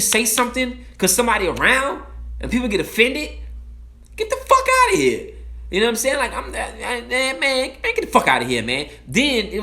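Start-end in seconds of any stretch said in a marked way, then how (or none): 4.2-5.3 outraged dismissal. Real, not acted. Outraged dismissal of offended people.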